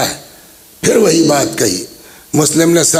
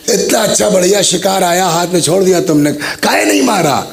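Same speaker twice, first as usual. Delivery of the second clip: higher, rushed reproach; scolding complaint; 5 semitones higher, faster than usual. Acted. Accomplice scolds Muslim for sparing Ibn Ziyad, higher rushed reproach. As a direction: press him hard, why didn't you strike.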